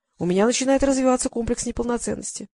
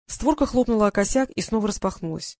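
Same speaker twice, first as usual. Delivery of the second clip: ordinary delivery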